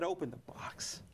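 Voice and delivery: breathless hush of a voice in the spirit; soft unvoiced whisper of the inner voice. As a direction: whisper it like a voice only felt inside. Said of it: "I heard a voice, not a loud voice".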